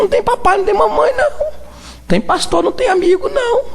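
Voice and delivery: high, climbing preacher's cry; rising exhortation. Acted. Preacher warning the church about judgment day, pitch climbing high.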